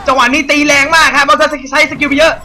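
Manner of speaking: high, loud caster hype; loud high hyped play-by-play; excited commentary. Real, not acted. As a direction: call the fight like a pumped-up caster.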